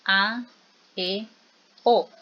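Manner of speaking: A, E, O repeated one at a time, open and distinct; vowel demonstration. Shown as a demonstration. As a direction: sound out A, E, O with a pause after each. (A, E, O abiertas, repetidas una por una)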